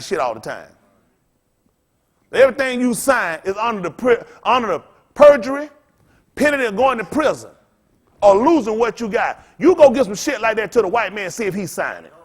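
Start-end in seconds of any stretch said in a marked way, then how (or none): 2.3-10.8 rising rant. Real, not acted. Building rant about contracts.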